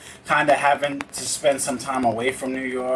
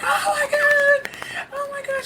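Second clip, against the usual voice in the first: high mock shriek of a crying sister; sister's tearful shriek. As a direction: squeal it up high, overcome. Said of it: "She's crying. She's yelling".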